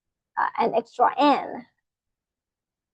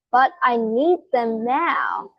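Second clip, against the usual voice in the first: reading the example; slower than usual. Shown as a demonstration. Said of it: "look at, uh, another sentence".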